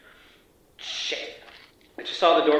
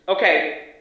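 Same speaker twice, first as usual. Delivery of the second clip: louder, forceful and decided; firm call-off; 3 semitones higher, 4 dB louder than usual. Acted. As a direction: shut the operation down with authority. Agent calling off the mission.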